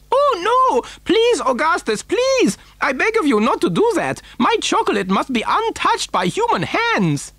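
very high, frantic pleading; horrified cry. A narrator's reading. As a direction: beg him to stop, voice shooting up. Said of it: "he cried out".

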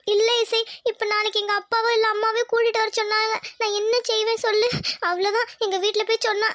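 high, tearful schoolgirl worry; acted tearful whine. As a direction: plead helplessly as if crying. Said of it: "ஏண்டி அழுகுற".

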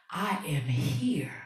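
whispered, unvoiced reassurance; soft whisper. Real, not acted. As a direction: breathe it softly to the viewer. Tender reassurance to viewers.

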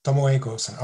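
"Tomoe Gozen" tried as to-mo-e go-sen; attempted pronunciation. Shown as a demonstration. Speaker copying the listener's correction, attempted pronunciation. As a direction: echo "Tomoe Gozen" as just taught. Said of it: "I will try to do my best".

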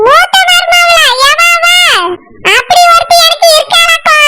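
scornful disbelief. Acted. Mother-in-law disowns daughter-in-law.

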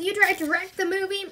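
high, loud accusing question; outraged yell. A narrator's reading. Mister Big Nose accusing Andy of wrecking the movie, yelling. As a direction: throw it out as an incredulous accusation. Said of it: "yells Mister Big Nose".

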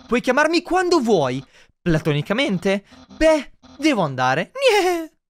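lightly voiced cheerful goodbye; quick, chirpy sign-off with a laugh; Papyrus voice. Papyrus leaving the human, cheerful.

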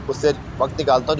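ordinary talk

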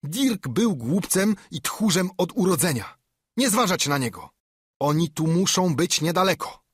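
raging. A narrator's reading. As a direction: berate the cowards and drive them on. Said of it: "zlił się Piu". (rozwścieczony ślepiec łaje bandę)

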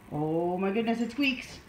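understated pet-talk surprise; mild amazement. Real, not acted. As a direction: marvel gently for the dog. First of two reactions to squeak.

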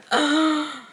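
loud, high gasp; shocked gasp. Real, not acted. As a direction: gasp aloud in surprise. Startled by Luke's appearance in book.

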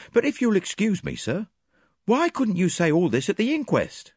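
bluff, impressed policeman; lightly voiced inspector praising Poirot; Japp, lightly voiced. A narrator's reading.

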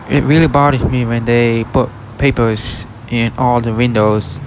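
ordinary talk, nothing marked

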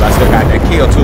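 excited. Real, not acted. Triumphant claim.

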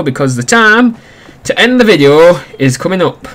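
hammed-up, lilting announcement; silly put-on voice. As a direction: slip into an exaggerated sign-off voice. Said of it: "I've started talking like this".

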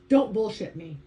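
forceful. Acted. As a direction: push it out with force. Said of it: "he said now with more force".

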